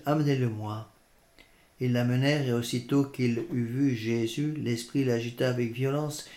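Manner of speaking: measured scripture reading aloud; lecture d'Évangile. Real, not acted. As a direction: read the Gospel out formally to listeners. (lecture posée de l'Évangile à voix haute)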